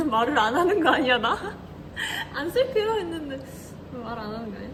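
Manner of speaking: ordinary talk, nothing marked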